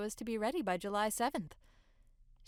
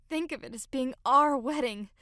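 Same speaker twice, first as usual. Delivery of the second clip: higher, louder burst on the wedding; earnest exclamation; 4 semitones higher, 7 dB louder than usual. Acted. Bride pleading with fiancé about their wedding, earnest exclamation. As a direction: exclaim it, pitch and volume lifted.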